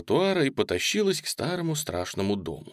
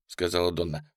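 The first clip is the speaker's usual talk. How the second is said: ordinary delivery, nothing marked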